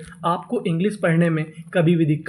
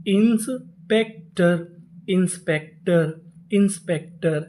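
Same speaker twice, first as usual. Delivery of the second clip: slow sounding out; slower than usual. Shown as a demonstration. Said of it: "तो पूरी meaning".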